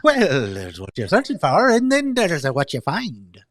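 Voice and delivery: light, playful sing-song reading; playful lilt. Shown as a demonstration. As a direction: say it with a twinkle, teasing. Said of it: "a little bit more of a playful".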